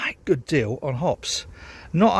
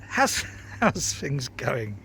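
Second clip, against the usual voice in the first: laughing greeting; 3 dB quieter, much slower than usual. Real, not acted. Laughing while greeting viewers.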